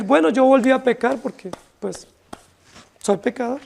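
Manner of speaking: an offhand excuse that fades to a mumble; dismissive excuse. Retold or imitated. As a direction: toss it off as a lazy self-excuse. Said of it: "Esa sería una autojustificación".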